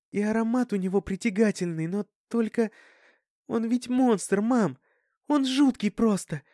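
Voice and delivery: put-on a girl telling mom of a monster, voice high; frightened Dasha. A narrator's reading. (испуганная Даша, высоким громким голосом)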